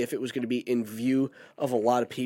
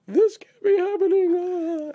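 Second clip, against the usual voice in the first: high woman's voice; 3 dB louder, slower than usual. Retold or imitated. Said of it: "she was like".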